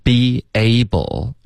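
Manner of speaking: "be able" joined by a light y glide; linked be able. Shown as a demonstration. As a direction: slowly demonstrate be-yable for "be able". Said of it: "之间会出现一个很轻的一个耶的音". (“be able”中间带轻轻的耶音)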